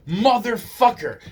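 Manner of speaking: high, loud imitation of a screaming man; retold angry yell. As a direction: yell it like the furious guy. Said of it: "He's yelling, he's screaming".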